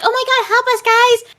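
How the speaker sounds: hammed-up panicked plea; mock panic. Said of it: "Dolores was like".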